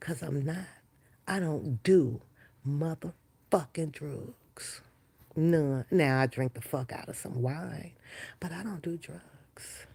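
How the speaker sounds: whispering low. Trying not to wake the dog, speaking in a low whisper. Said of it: "I'm trying to whisper in a low tone".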